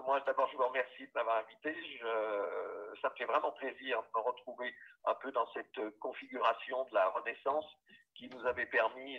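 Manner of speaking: quiet, distant phone speaker; on speakerphone. Real, not acted. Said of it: "en haut-parleur sur mon téléphone". (sur haut-parleur de téléphone)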